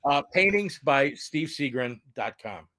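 slow lisp after a tooth pulled; careful words with a lisp. Real, not acted. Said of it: "my voice sounds funny".

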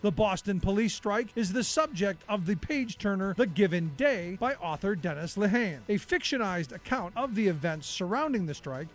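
measured documentary read; scripted history narration. Acted. Narrator telling listeners about the Boston police strike, scripted history narration. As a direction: read it as a radio history feature.

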